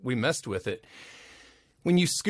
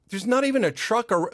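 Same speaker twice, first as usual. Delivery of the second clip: incredulous; 9 semitones higher, 4 dB louder than usual. Retold or imitated. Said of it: "I'm like".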